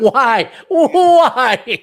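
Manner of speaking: high, loud laughing question; incredulous, cracking up. Real, not acted. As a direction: ask through real laughter. Bursts out laughing at quotation marks.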